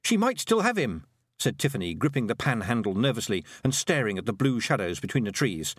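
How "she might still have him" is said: high, urgent wee man; squeaky Scottish pixie. Acted. Rob Anybody voiced.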